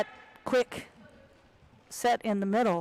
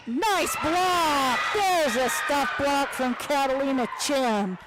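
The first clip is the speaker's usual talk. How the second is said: excited; 5 semitones higher, slower than usual. Real, not acted. Play-by-play call of a block.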